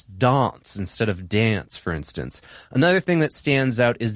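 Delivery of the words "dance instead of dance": first "dance" with a broad British "ah", second "dance" with the flat American "a", slowly; British and American vowel. Shown as a demonstration. Host contrasting transatlantic and American vowels in dance. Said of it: "softer British vowels".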